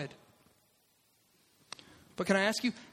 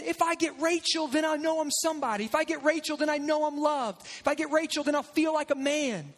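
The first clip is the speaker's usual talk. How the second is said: yearning Jacob; 5 semitones higher than usual. Acted. Preacher voices Jacob's longing.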